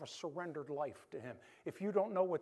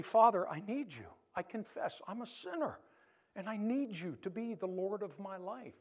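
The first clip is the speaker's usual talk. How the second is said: sample prayer; 3 semitones higher than usual. Shown as a demonstration. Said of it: "Just say".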